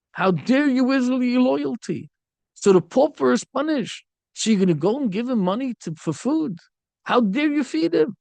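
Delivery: mock outrage at feeding the king's prisoner; indignant rebuke. Ruler scolds Rabbi Akiva for feeding the prisoner, indignant. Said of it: "so Tunas Rufus says".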